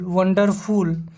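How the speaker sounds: वंडरफुल stretched very slowly, every syllable held long; slow teaching demo of a long word; drawn-out word. Shown as a demonstration. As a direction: pull वंडरफुल out slowly to show it takes time. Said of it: "ये लंबा खींच रहे हैं शब्दों को".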